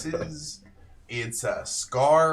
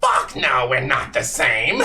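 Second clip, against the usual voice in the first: louder, offended; indignant retort; 8 dB louder than usual. Acted. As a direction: bark it back. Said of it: "little one retorts".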